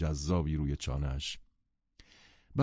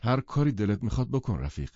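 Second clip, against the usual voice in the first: unruffled; 4 semitones higher than usual. Acted. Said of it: "بدون اینکه خم به ابرو بیاورد".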